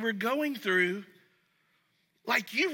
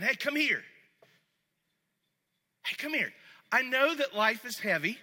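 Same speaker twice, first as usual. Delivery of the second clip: gentle invitation. Retold or imitated. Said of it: "He's saying".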